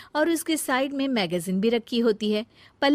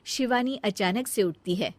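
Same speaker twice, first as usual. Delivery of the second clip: usual speaking voice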